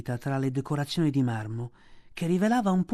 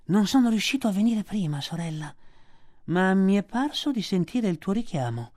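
higher, unusual snake voice; python voice; 4 semitones higher than usual. A narrator's reading. Kaa speaks to Bagheera in a python voice. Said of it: "disse poi rivolto a Bagheera".

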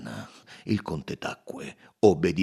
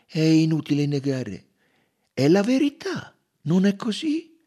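gentler; 7 semitones higher, 8 dB louder than usual. Acted. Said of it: "In tono più dolce".

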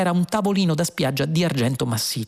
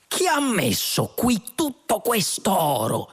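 shrieking; 6 semitones higher than usual. A narrator's reading. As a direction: squeal it out in lightly voiced astonishment. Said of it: "strillò Zaphod".

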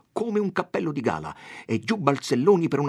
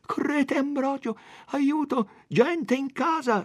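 high, louder cry for help; shouting for help; 3 dB louder, slower than usual. A narrator's reading. Don Abbondio yelling to the sexton for help, loud and urgent. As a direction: yell urgently, drawing out the last words. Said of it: "gridò".

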